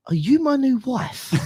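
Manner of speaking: giggly teasing question; laughing quote. Retold or imitated. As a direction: read it out while cracking up. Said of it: "That was the first comment".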